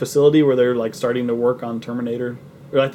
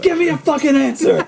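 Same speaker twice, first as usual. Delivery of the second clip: mock bully demand; 13 semitones higher than usual. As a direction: bark the demand like a cartoon bully. Quoting the bully's line.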